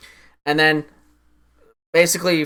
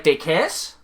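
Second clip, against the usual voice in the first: baffled question; 3 semitones higher than usual. Retold or imitated. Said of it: "I was like".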